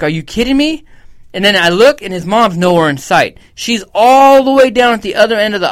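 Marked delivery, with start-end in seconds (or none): 0.0-0.8 high mock yell, exasperated; pitched-up disbelieving shout; retold yell. Yelling at the kid over the spilled ice cream. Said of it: "I yelled at this kid".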